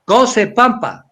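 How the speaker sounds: very slow Cose Pampa, every syllable spelled out in sound; original Quechua form. Shown as a demonstration. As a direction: teach the true old name. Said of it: "sino Cose". (Cose Pampa, despacio y marcado)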